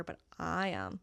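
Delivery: I emphasised in contrast; stress on I. Shown as a demonstration. Comparing self with absent Jack, stress on I. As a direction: lean on the word I. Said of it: "There's a comparison".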